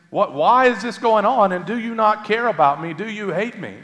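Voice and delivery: high, pleading questions to God; anguished complaint. Acted. Believer in trial questioning God, anguished complaint. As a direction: pour out a high-pitched complaint, loud at first. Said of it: "pour out our hearts in complaint".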